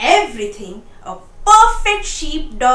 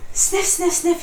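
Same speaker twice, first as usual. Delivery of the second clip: sniffing; 5 semitones higher than usual. A narrator's reading. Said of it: "he went".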